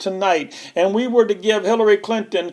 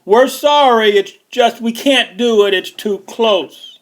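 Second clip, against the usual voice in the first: a light sneering parody of a newscaster; mocking media anchor; 3 semitones higher than usual. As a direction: play a prissy talking head making excuses. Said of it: "she's trying to explain to all the Americans".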